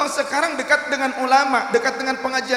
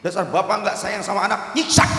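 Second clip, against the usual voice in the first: scolding villagers; 2 semitones lower than usual. Retold or imitated. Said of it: "Orang langsung menyalahkan beliau".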